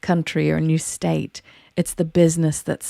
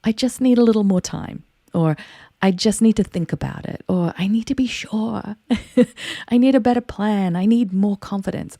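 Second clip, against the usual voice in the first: voiced self-talk; 5 semitones higher than usual. Told yourself.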